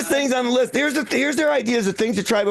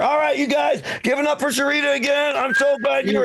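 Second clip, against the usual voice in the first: calling out; 4 semitones higher than usual. Real, not acted. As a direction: call it out to the crowd. Host calling out to crowd.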